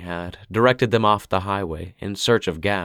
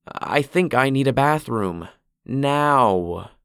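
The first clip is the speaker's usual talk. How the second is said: higher, pressing wife voice; insistent wife; 6 semitones higher, slower than usual. A narrator's reading. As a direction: she can't wait any longer. Sheila insists.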